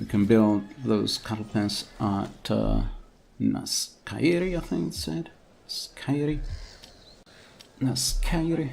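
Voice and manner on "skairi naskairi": clumsy, terrible put-on Irish accent. Trying to pronounce a place name in a game: terrible Irish accent. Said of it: "for my terrible Irish accent".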